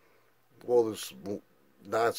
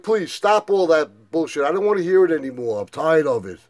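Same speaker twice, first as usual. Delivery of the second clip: 1 fed-up outburst; 5 semitones higher, 5 dB louder than usual. Retold or imitated. Shutting brother down.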